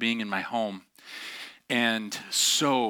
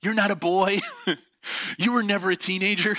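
high, louder mock teen protest; hammed-up adolescent complaint, pitched way up; whining thirteen-year-old; 8 semitones higher, 4 dB louder than usual. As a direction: imitate a teenager griping at Dad. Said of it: "you're thirteen years old being like".

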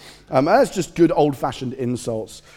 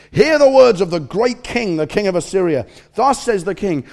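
loud proclamation; 5 semitones higher, 7 dB louder than usual. Acted. Assyrian commander shouts to the people on the wall, a loud herald's call. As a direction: call it out across the city wall. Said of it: "called out in a loud voice".

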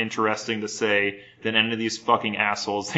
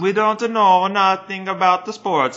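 mock dumb sports fan; 9 semitones higher, 5 dB louder than usual. Hosts mock being clueless about sports.

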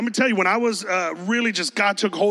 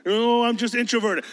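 mock introvert; 4 semitones higher than usual. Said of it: "give it a rest with the introverted stuff".

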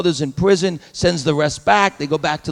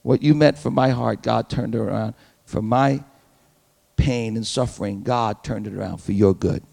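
impassioned declaration; 4 semitones lower, 4 dB louder than usual. Pretend. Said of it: "But he said".

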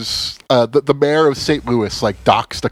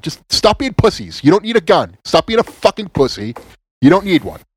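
exasperated shout; 5 semitones higher than usual. Real, not acted. Angry rant at gun owners.

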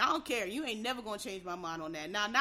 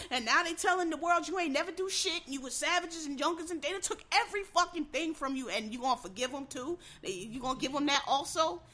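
mocking voice; 6 semitones higher, 5 dB louder than usual. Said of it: "'Cause they come in and".

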